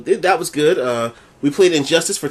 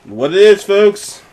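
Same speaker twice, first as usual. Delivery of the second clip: catchphrase shout; 5 semitones higher, 5 dB louder, slower than usual. Acted. Signature catchphrase greeting.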